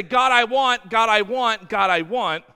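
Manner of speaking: put-on loud, whiny child begging God; whiny demand. Acting a sheep demanding wants.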